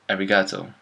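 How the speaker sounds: arigato read as a-ri-GA-tow; learner's misreading. Retold or imitated. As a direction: say arigato with English stress on GA. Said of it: "you might read this".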